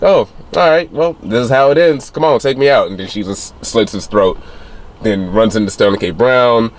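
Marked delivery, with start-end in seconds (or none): 0.0-2.9 lightly voiced shrugging villain, higher; resigned villain. Villain calmly accepting his death, voiced a bit higher and casual.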